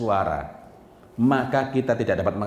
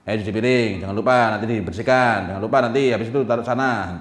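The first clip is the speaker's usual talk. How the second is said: louder, rushed string of commands; harsh orders; 2 semitones higher, 6 dB louder than usual. Retold or imitated. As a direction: bark chores at the child. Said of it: "cara memerintahkannya yang kasar".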